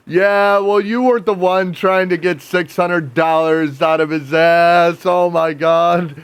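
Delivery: mock angry retort. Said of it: "retold argument reply".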